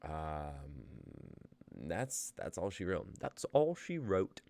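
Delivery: host's attempted RP British accent, slipping in and out. Host closing the show for viewers, in attempted RP accent. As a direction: read the outro in your best RP English accent, sometimes losing it. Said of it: "but we do it in our best R P dialects".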